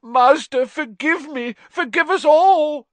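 high, loud pleading shriek; shrieking plea. A narrator's reading. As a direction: beg for mercy in a shriek. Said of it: "he shrieked".

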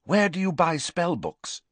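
abrupt, pressing question; interrupting. A narrator's reading. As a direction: jump in before the other has finished. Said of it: "interrupted Riddle".

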